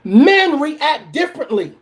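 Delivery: slowed for the slow people; slow, emphatic repeat. Shown as a demonstration. Repeating it slowly for the slow people in the back. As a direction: spell it out slowly. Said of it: "Let me say this again for the slow people".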